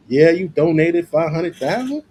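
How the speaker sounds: high, rising incredulous question. Real, not acted. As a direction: question it in real disbelief, pitch climbing. Reacting to big donation figure.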